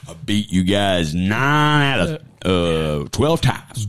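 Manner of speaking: slow, low, smug boast; gloating coach. Retold or imitated. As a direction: drag out the boast to rub it in.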